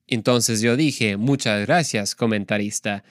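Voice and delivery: lightly voiced Spanish dubbing narrator; deadpan voice-over imitation in Spanish; measured imitation of a dubbed translator. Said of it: "it went kind of like this".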